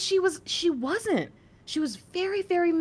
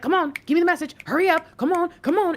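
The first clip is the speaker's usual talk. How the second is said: impatient demand; 5 semitones higher, 4 dB louder, faster than usual. Retold or imitated. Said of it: "you're like".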